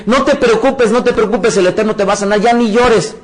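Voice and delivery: quoting well-meaning but dismissive comfort; mock reassurance. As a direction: imitate people hushing the sick. Mock comforting of sick person.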